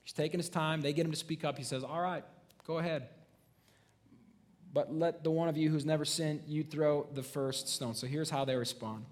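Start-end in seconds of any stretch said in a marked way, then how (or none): 1.8-7.9 quietly calm, letting each word land; calm soft-spoken. Retold or imitated. Jesus answering his accusers, calm and soft-spoken. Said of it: "soft-spoken words to him".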